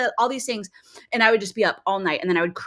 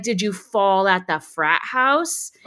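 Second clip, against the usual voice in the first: sarcastic mom; slower than usual. Retold or imitated. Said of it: "I'm like".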